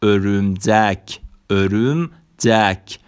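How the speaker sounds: "ارمجک" very slow, as örümcek; Turkish ö demo. Shown as a demonstration. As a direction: draw "ارمجک" out syllable by syllable.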